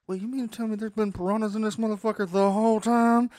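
high, mock-outraged disbelief; hammed-up shock at the news; retold disbelief. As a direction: pitch it way up, incredulous. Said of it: "And I was like".

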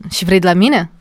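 a hint of a grumpy slouch; sullen rude. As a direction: mutter it like you'd rather not be bothered. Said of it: "cocoșat și cu o față de".

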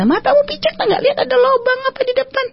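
high, harsh angry yell; rude shout. Retold or imitated. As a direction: yell it like a coarse stranger. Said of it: "ini kasar-kasarannya ya". (bentakan kasar bernada tinggi)

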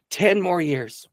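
high-pitched but not shouted; marveling repeat. Real, not acted. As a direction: echo it in wonder at normal volume. Repeats the climax, now less loud.

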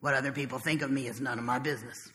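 quoted wisdom, soft. Retold or imitated. Recalling a twelve-step meeting, soft and reflective. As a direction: say it softly, letting it land. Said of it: "I heard somebody say".

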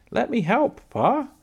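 put-on high-pitched eager little girl; eager panting child. Laura running after Pa to help, eager and panting. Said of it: "she panted".

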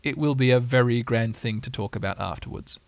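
comforting whisper. Acted. Pooh reassuring Piglet, softly comforting. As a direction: soothe a frightened friend quietly. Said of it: "whispered Pooh comfortingly".

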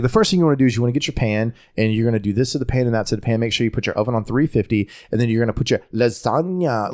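put-on quick instructions, sudden Italian accent on "lasagna"; chef code-switching. Host imitating TV chef, fast talk with Italian-accented lasagna. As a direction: rattle off the recipe, then say "lasagna" Italian-style. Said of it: "she's like".

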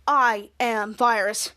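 low, slow robotic villain drone; slow low monotone computer virus; menacing virus voice. Acted. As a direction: drag each word out like a cold machine. Kid retells villain virus line.

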